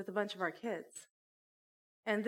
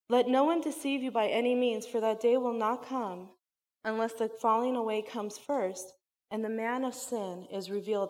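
scripture reading; 4 dB louder than usual. Acted. Reads Second Thessalonians aloud.

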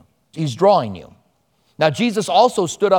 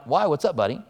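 soft, easy tone to defuse an upset man; calm de-escalating; 2 semitones lower, 5 dB quieter than usual. Retold or imitated. Pastor calming an angry golfer, gently soothing and friendly. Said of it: "I'm just trying to de-escalate it".

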